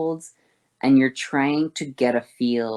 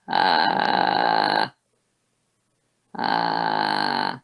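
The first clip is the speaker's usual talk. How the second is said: low creaky uh; deep fry; 14 semitones lower than usual. Shown as a demonstration. Teacher doing fry before thinning the folds. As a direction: grind down low. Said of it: "thin my vocal folds".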